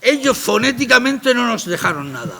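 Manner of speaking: heated rebuttal. Real, not acted. Heated rebuttal about phonetics.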